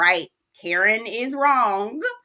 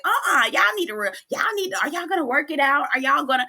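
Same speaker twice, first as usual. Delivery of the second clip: higher, prim voice of reason; mock peacemaker; 5 semitones higher, faster than usual. Karen lecturing the cast, lightly voiced prim mediator. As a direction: play the bossy mediator. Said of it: "Karen's trying to act like".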